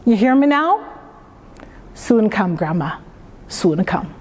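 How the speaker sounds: natural, unexaggerated Jamaican lilt; Jamaican accent. Author speaks to late grandmother in her reading, easy Jamaican accent. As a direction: slip easily into a Jamaican accent, never for show. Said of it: "you use that Jamaican accent very easily".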